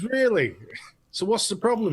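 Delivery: lightly put-on Scottish accent. Joke-teller as puzzled shopkeeper, mock Scottish accent. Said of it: "did you do that in a Scottish accent".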